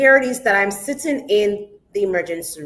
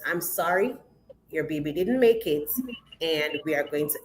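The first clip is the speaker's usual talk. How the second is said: straight face; 3 semitones lower, 4 dB quieter than usual. Retold or imitated. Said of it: "she said it with a straight face".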